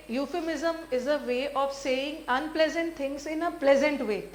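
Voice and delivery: slow, deliberate definition; slow dictation. Shown as a demonstration. Teacher dictates the definition slowly to students. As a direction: spell it out slowly for notes.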